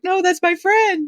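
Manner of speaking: put-on a quick high British-accented line; imitating the friend in a British accent. To the host, quoting her friend in a British accent. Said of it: "your friend who has a British accent".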